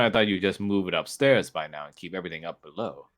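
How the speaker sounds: touch of a prissy aristocrat; pompous nobleman. Acted. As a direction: play the snooty courtier brushing off a joke. GM voices the fussy nobleman Shapir.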